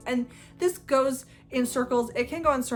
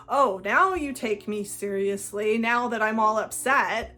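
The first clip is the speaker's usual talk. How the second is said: mock upset; 4 dB louder than usual. Narcissist rebuffs a partner's offer to help, acted upset. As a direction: throw it back as a wounded accusation. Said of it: "might start getting angry with you".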